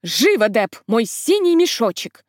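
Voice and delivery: mock shout of the aunt; lightly voiced aunt yelling for her bag; retold yell. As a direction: bark it out like an impatient aunt. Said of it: "И как заорёт".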